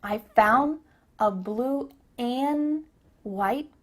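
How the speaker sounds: slow "foun" for "found", "an" for "and"; very slow word-by-word demo; cut-off D. Shown as a demonstration. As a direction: stretch "and" without its d. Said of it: "cut off that final D sound".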